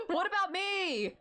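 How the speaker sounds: high, drawn-out plaintive cry; mock-pleading high voice; left-out character. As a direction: whine it high and slow, hammed-up. Voices a character wanting to come along.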